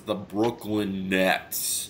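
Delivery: drawn-out mock Brooklyn accent; failed attempt at Brooklyn accent. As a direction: stretch it out in your best Brooklyn accent. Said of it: "my best Brooklyn accent".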